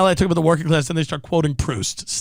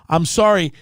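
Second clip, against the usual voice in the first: usual speaking voice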